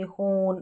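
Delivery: होन said with a long closed o; teacher gives the right होन with a long o; correct long o. Shown as a demonstration. Teacher corrects students, long closed o. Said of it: "हॉर्न नहीं पढ़ेंगे".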